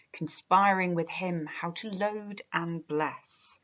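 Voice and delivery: measured, unhurried recitation; poem reading. Acted. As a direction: read the lines like a poem to the class. Reads the poem aloud.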